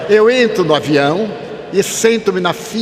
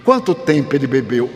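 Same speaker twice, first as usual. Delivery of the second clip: sly; 6 semitones lower than usual. Retold or imitated.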